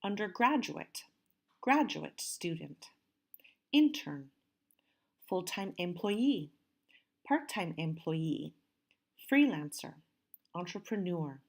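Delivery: deliberate word list, stressed syllables brought out; careful model pronunciation. Shown as a demonstration. Teacher says listen how I pronounce them, careful stressed model. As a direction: read each term carefully, marking its stress. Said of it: "listen and see how I pronounce them".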